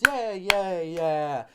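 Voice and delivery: loud, high "yeah"s that come down; mock cheer. Comedian celebrating the found Dragon Balls, loud mock cheering. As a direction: cheer each one loudly.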